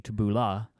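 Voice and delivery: tabbouleh ending in an open ah; variant pronunciation. Shown as a demonstration. Reading out Wikipedia's spellings, tabbouleh said tuh-boo-LAH. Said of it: "also transcribed".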